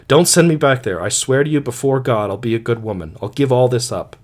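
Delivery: woman begging the missionary not to send her back, pleading; desperate pleading. Acted. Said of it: "She burst into a torrent of confused supplication".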